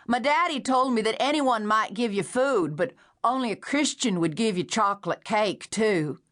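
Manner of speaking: put-on high, plaintive man-child voice, pitched well up; a simple, wheedling stranger begging for cake; childlike hungry stranger. A narrator's reading. Man outside at window.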